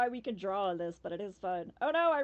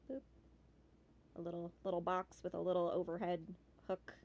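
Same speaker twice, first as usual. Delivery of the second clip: usual speaking voice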